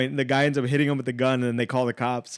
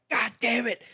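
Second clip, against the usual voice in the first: mock frustration; 9 semitones higher than usual. Naked burglar stuck with mounted TV, mock frustration. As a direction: imitate a thwarted burglar. Robber can't get TV down.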